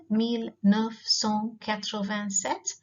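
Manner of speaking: "mille neuf cent quatre-vingt-sept" read slowly; teacher modeling a French year. Shown as a demonstration. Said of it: "thousand nine hundred and eighty-nine".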